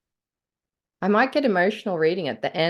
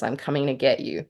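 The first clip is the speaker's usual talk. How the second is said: menacing reading; 2 semitones lower than usual. Shown as a demonstration. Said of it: "and one is".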